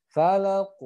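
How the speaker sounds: loud Falaq, final q bounced toward an O; bouncing final qaf. Shown as a demonstration. Teacher repeats the word for students, bouncing qaf. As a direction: release the q of Falaq with a rounded echo. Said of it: "harus mantulnya ke huruf O".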